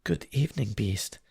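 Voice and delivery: put-on high, sweet young girl's greeting; sweetly. Beauty greets the beast, sweet and high. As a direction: brave sweetness masking her fear. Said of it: "Beauty answered sweetly".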